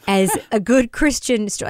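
sarcastic quote with a laugh; mocking. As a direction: laugh at the phrase as you quote it. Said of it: "like, what does that mean?".

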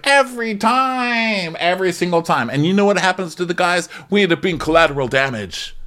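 mock exasperation. Acted exasperated complaint.

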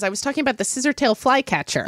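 laughing shout, fast. Real, not acted. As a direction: blurt it out while laughing. Laughing at own memory.

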